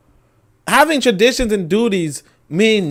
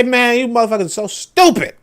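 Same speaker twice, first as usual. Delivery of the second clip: high, loud gloating taunt; mocking French voice; 5 semitones higher, 6 dB louder than usual. France taunting Niger, a high loud gloating sneer. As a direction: sneer down at them loudly. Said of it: "They say".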